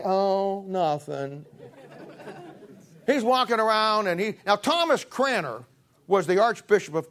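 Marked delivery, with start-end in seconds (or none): 0.0-1.4 put-on mopey teen sigh. Kid moping, answering mom.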